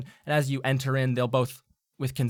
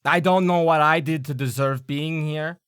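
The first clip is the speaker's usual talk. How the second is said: louder put-upon gnome voice; grumbling gnome; 4 semitones higher, 7 dB louder than usual. Acted. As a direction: complain formally as a gnome. GM voicing the gnome.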